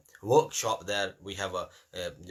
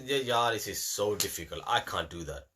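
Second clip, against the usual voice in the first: whiny excuse; 3 semitones lower than usual. Retold or imitated. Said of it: "if someone says".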